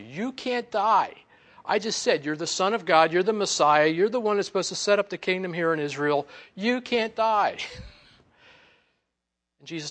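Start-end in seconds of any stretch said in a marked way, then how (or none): 0.0-7.6 loud, higher, insistent protest; Peter protesting. Retold or imitated. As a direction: argue forcefully, stretching YOU CAN'T DIE. Acts out Peter rebuking Jesus.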